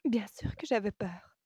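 high, agitated admission; choppy, agitated voice. A narrator's reading. Woman admitting fear of losing him, agitated and high. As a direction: drop the feigned calm and admit it. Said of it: "d'une voix hachée, renonçant à feindre un calme".

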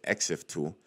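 exif said as "EX-if", ending in F; corrected pronunciation. Shown as a demonstration. Vlogger repeating the corrected tool name, exif pronounced with final F. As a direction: say exif in two syllables, no L. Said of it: "That's how you pronounce it".

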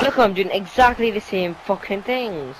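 loud, slow frustrated rant; panicking gamer. Real, not acted. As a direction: spell out your frustration, loud.

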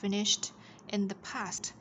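"finished" with rounded sh and a final t; T ending sound. Shown as a demonstration. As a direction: round the lips for sh, then tap t in "finished". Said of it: "đọc là t". ("finished" tròn miệng âm sh, kết bằng t)

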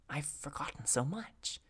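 soft, hushed confession. A narrator's reading. B explains herself to the secretive messenger, hushed. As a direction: say it under your breath. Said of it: "whispering was part of the routine".

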